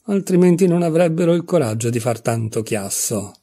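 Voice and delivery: understated narrated anger; trembling with rage. A narrator's reading. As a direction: fume at the noisy offenders. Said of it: "tremando di rabbia".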